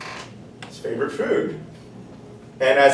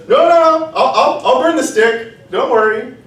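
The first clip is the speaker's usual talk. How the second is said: much higher, louder panic; eager fire; 11 semitones higher, 6 dB louder than usual. Acted. The fire promising the rooster, much higher and eager. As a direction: blurt it out, scared to be put out.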